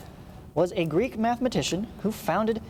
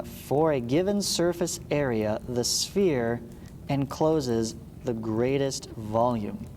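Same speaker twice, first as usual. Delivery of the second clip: slow, spaced out so students can write it down; slow dictation; 3 semitones lower, slower than usual. Shown as a demonstration. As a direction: dictate it slowly word by word. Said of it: "Write that down".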